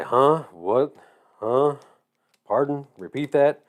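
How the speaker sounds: imitating a puzzled caller; rising, questioning requests to repeat; mock can't-understand-you queries; uncomprehending. Mimics callers not understanding him.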